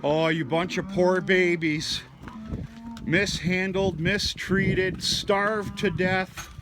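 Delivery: high, slow, exaggerated sympathy; mock pity. Farmer teasing his bellowing heifers, mock pity. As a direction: ham up poor-babies pity for the cows. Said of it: "you are the most dramatic bunch of ladies".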